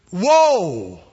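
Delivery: loud, long falling yell; panicked shout. Acted. Rider panicking on a runaway horse, drawn-out shout. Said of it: "So he shouted out".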